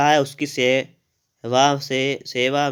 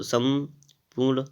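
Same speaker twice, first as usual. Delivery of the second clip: 1 slow spelled-out word; much slower than usual. Shown as a demonstration. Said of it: "ये हो जाएगा आपका संपूर्ण".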